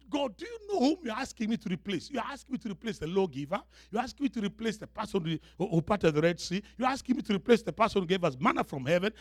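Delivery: rapid, piling-up protest; overwhelmed Joshua. Acted. Joshua protesting to God about replacing Moses, overwhelmed. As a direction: rush through it, pitch jumping on the big question. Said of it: "So Joshua must be wondering".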